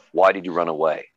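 a hint of a stern American cop; American policeman. Policeman questioning a boy who ran, lightly voiced officer. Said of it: "The American policeman goes".

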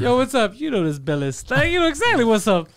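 lightly hammed-up cool-guy greeting; mock swagger. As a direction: replay the cocky catchphrase, amused with yourself. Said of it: "I keep thinking it's like".

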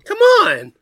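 very high, loud falsetto shriek; shrieked come on. Acted. Outdoing cohost, shrieking come on. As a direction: top the last one with a shriek.

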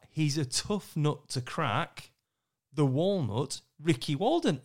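drawn-out announcer read, very slow; slow MC intro. Retold or imitated. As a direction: savour each word like an arena intro. Retells his MC intro line.

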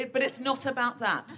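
amused echo of her words; laughing repeat. Real, not acted. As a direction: relay it to the room.

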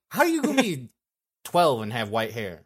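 laughing. Real, not acted. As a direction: ask it while cracking up. Laughing at white-haired kids.

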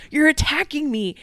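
high, loud imitation of indignation; mock angry. Podcaster retelling his reply to criticism, mock-angry protest. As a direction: imitate a man lashing out defensively. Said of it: "Stop getting so angry".

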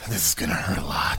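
deep character voice. Acted. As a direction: drop the voice low for the bit.

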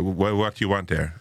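lightly imitated Mayo local; a mild singing Irish lilt from Mayo; Mayo accent. Petrol station man questioning the visitor, Mayo accent. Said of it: "I'm gonna do this accent".

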